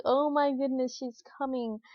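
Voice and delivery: light up with mild joy at the news; excited. Retold or imitated. Mother feeling her baby's head, mildly thrilled. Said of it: "lit up".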